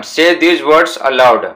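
very slow, careful reading aloud; slow textbook reading. Shown as a demonstration. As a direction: read each word out slowly for the class. Reading the textbook English slowly.

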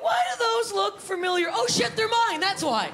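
high, startled double take; shocked to spot her own nipples on dad; mock shock at the cottage; surprised realisation. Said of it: "I'm like".

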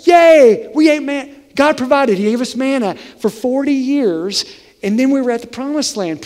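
high, loud happy cheer; cheerfully thankful, bursting; upbeat cheering Israelite; glass half full. Pretend. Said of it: "glass half full".

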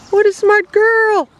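squeaky praising a dog. Real, not acted.

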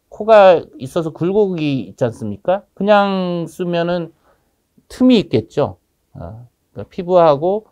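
muffled behind surgical mask; speaking while pressing mask; through a face mask. Real, not acted. Seen 1: Surgical mask covers his nose and mouth throughout; reference frames unmasked.

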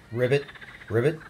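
low little "ribbit" with a lift; frog croak. Pretend. Frog in picture book.

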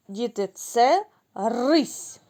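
slow, deliberate Діти, це рись; slow presentation. Shown as a demonstration. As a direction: present the word рись slowly to the children. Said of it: "В слові рись". (повільно, чітко)

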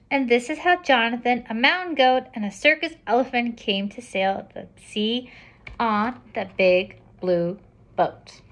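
lively, projected storybook reading; picture-book narration. A narrator's reading. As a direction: read it out to children, slowing at the end. Reads picture book aloud.

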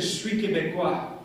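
put-on "Je suis Québécois" in a thick Québécois French accent; retold line in a strong French Quebec accent; hardcore French accent. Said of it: "with a hardcore French accent".

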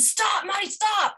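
mock-yell like dad in the hallway; retold yell. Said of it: "he st-, yelled".

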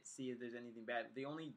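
mouthpiece touching lips; talking around hookah mouthpiece; speaking with hookah hose at lips. Real, not acted. Seen 2: Mouthpiece at lips 0.2–1.4s, then lowered while speaking.

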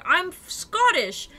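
high, loud, slow retold exclamation; hammed-up, drawn-out loud declaration; imitated proclamation. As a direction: announce it grandly as the other paramedic. Acts out second paramedic proclaiming it.

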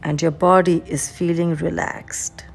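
measured breathing cues with long pauses; guided meditation. Real, not acted. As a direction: lead them unhurriedly, breath by breath.

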